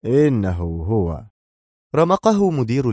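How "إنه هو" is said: slow, lower, curt and stern. A narrator's reading. Henderson cutting off the security director, stern and slow. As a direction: cut him off coldly and slowly. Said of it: "في شيء من الصرامة".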